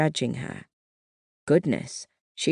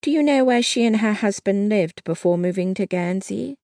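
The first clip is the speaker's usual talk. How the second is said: nervous stammer; 6 semitones higher, 3 dB louder than usual. A narrator's reading. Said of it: "She practically stammered as she said".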